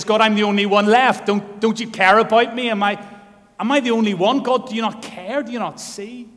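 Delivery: high, loud plea to God; despairing cry. Retold or imitated. Elijah pleading with God, a high loud cry. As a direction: cry out abandoned and alone.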